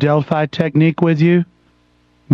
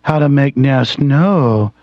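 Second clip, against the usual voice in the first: mock soft NPR voice. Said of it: "let me talk to you like this".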